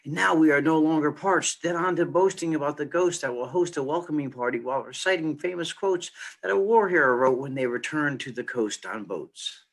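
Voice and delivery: measured spoken-word tribute, rhymes leaned on; poem recital. Acted. Poet reading a veteran's funeral tribute, spoken-word recital.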